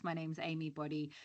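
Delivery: speaking up; projecting the name. Real, not acted. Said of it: "I'll try and shout".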